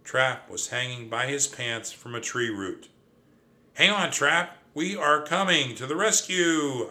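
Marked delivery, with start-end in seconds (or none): 3.8-6.9 high, loud rescue call; loud, high, urgent shout of encouragement. A narrator's reading. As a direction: call down to someone in trouble. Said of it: "I called".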